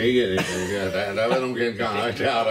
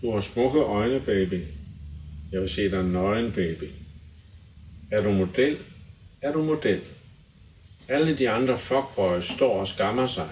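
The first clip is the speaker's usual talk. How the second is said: dramatic lyric recital. Acted. Guest reads pop lyrics aloud for the hosts, measured recital.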